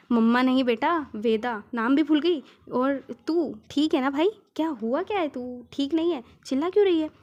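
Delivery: loud, scolding friend on phone. Acted. Friend scolds Shri on the phone, loud and indignant. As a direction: snap at her loudly.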